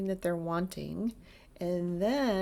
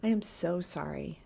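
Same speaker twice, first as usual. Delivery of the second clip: with feeling. Shown as a demonstration. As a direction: let the sympathy sit behind the words. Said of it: "if you say it with a feeling behind it".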